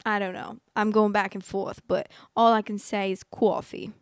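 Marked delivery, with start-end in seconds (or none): 3.2-3.9 "coffee" in a put-on New York accent; playful New York accent on "coffee". Shown as a demonstration. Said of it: "the best thing that I can say in that accent".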